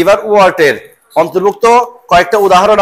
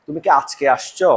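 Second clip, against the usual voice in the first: example question; 4 semitones lower, 4 dB quieter than usual. Retold or imitated. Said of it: "মনে করো".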